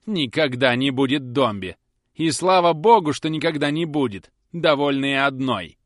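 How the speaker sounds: loud, sharp outburst; indignant shouting. Acted. Susan Nipper railing at the Dombeys, loud and indignant. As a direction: shout it with spite.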